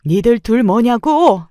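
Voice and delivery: loud, high, drawn-out demand; slow, rising shout of outrage; angry yell. A narrator's reading. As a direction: yell it at both of them. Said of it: "소리를 질렀습니다".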